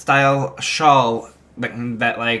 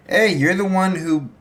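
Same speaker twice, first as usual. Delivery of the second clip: defensive Bakugo; 3 semitones higher than usual. Retold or imitated. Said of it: "He's like".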